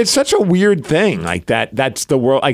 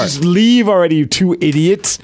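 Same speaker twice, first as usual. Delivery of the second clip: mock rude clerk; 3 semitones higher than usual. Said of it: "My anxiety heard it that way".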